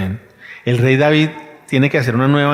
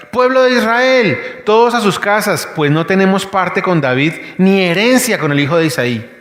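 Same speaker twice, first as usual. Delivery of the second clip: rallying shout; 5 semitones higher than usual. Retold or imitated. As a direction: call out to the whole crowd. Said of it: "se puso a gritar". (grito convocando al pueblo, alto y fuerte)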